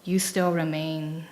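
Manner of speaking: slow, fragmented recital with lines trailing off; poem reading. Acted. Reading her concrete poem to the audience, slow and fragmented. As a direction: read each fragment as its own small moment.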